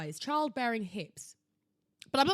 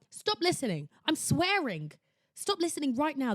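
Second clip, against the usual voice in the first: urgent warning; 4 semitones higher, 5 dB louder than usual. Real, not acted. Warning teens not to listen.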